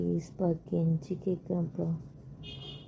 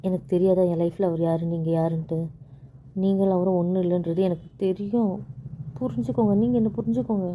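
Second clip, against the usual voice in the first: louder, exasperated pleading to be understood; heated outburst; 4 dB louder than usual. Acted. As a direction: push back hard, frustrated and loud. Wife's heated outburst in quarrel. (கோபமான, உரத்த கெஞ்சல்)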